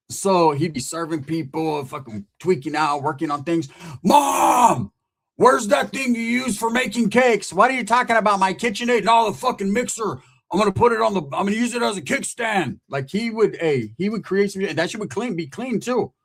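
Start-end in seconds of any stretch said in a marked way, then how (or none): 4.0-12.8 squeaky nagging son calling to his mom; Roach's voice. Retold or imitated. Roach asking his mom for mixer.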